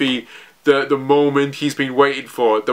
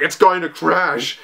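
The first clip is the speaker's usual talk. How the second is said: slow, higher-pitched panicked cry; losing it; 4 semitones higher, slower than usual. Retold or imitated. Narrator voicing Momonosuke as the island falls, mock panicked cry. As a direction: imitate someone losing it, stretching the words. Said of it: "Momonosuke just losing it".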